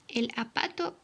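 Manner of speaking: "apato" said without the initial z; childlike "apato" for zapato; dropped sound. Shown as a demonstration. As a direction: leave off the first sound of "apato", like a small child. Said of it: "por omisión de algún sonido".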